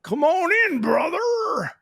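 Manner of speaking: the greeting comes out strangely; odd high brother greeting. Retold or imitated. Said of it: "I don't know why that came out that way".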